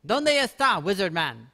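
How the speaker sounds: loud call across the map, high. Real, not acted. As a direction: shout out looking for someone. Calling out for the wizard.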